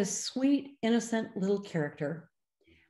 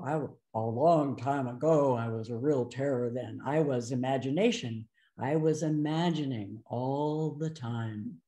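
Gestalty voice; 6 semitones lower than usual. Retold or imitated. Therapist imitating the child's scripted speech, lightly voiced. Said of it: "in the Gestalty voice first".

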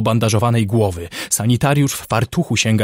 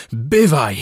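abrupt raised call; sudden yell; 3 semitones higher, 4 dB louder than usual. Acted. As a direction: burst out suddenly, as if hailing for help. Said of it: "wrzasnął nagle".

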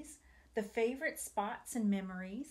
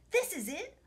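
mock holler; 5 semitones higher than usual. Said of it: "Grandpa hollered".

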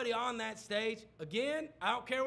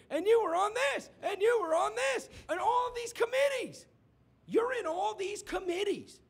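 high, louder hammered accusations; mock attack building; 10 semitones higher, 3 dB louder than usual. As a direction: go in for the kill, rising each time. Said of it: "he's like".

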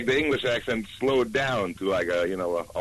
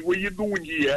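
put-on weird-sounding American accent, pitched up; mock American accent; 6 semitones higher than usual. Guest imitating how Americans sound abroad, weird American accent. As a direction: imitate American speech as foreigners hear it. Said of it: "to them it must sound really weird".

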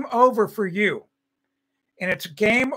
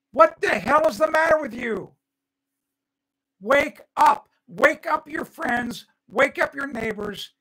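exasperated yell; 4 semitones higher than usual. Real, not acted. Ranting at the audience.

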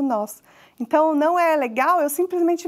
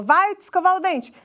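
higher-pitched parental command; giving an order; 6 semitones higher, 3 dB louder than usual. Acted. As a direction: order the child to go, falling at the end. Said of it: "quando a gente só dá ordens". (dando uma ordem)

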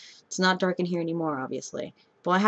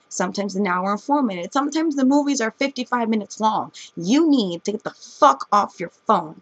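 louder, higher furious ranting at phone users; angry rant; 3 semitones higher, 3 dB louder than usual. Real, not acted. Ranting about people on phones in the movie theater, heated and loud. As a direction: let it all out at the rude moviegoers.

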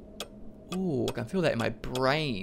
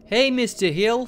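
high, loud, drawn-out hello; mock-chummy loud hail; playful calling out; 10 semitones higher, 7 dB louder than usual. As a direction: sing out a greeting to the boss. Playfully calls to the boss.

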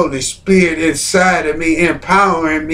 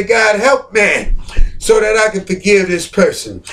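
pleading cry. Acted. Praying aloud to God.

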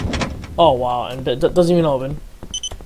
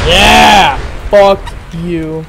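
shout; 8 dB louder, much slower than usual. Real, not acted. Reacting to a kill in game.

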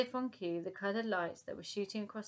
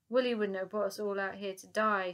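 louder, urgent call over the storm; half-raised shout; 5 dB louder than usual. Acted. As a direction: shout it against the wind. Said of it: "shouted Elsie".

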